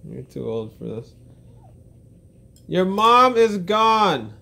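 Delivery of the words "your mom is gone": exaggerated wail. Real, not acted. Teasing crying child, drawn out.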